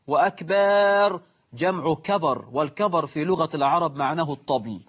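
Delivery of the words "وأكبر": وأكبر with a long "akbaaar"; added alif in أكبر. Shown as a demonstration. Teacher repeats the mistaken word, وأكبر stretched to "akbaaar". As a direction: hold the last vowel of وأكبر before the r. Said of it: "إدخال ألف بعد الباء وقبل الراء".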